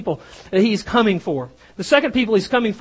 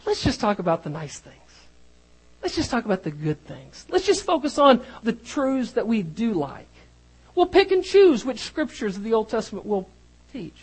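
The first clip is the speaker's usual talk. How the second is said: mock coaxing preacher voice, softer; smooth compromising preacher; 5 dB quieter than usual. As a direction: imitate a preacher who avoids hard truths. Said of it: "do I just join them and say".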